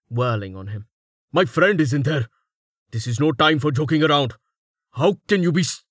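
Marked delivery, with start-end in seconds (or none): 1.3-5.8 high, agitated protest; angry shouting. A narrator's reading. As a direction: protest angrily in a raised pitch.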